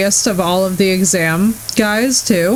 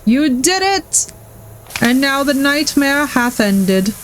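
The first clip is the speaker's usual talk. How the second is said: grand proclamation; 5 semitones higher, slower than usual. Pretend. Mock grand proclamation to viewer.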